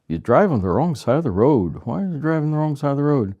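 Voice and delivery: imitating a tourist poking fun, pitch swinging up and down; mock ridicule. Visitor to Ireland teasing about the driving, imitated mockery. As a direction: lightly mimic someone making fun, voice lifted on the question. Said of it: "some people come and just sort of make fun of".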